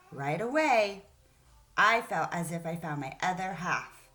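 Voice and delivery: put-on storytelling voice for kids; story read aloud. Teacher reading the story aloud to her class.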